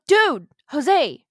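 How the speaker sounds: high, loud possessed wife voice; ghost scolding. Retold or imitated. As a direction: berate him as the ghost speaking through his wife.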